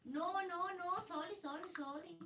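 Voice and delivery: light mock Indian accent; a quick put-on Indian accent. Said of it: "Why are you doing an Indian accent?".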